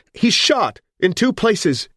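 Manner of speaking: high, loud and slow; crying out. Acted. Amelia calls to the police, high, loud and slow. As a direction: call it out, dragging each word. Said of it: "she cried".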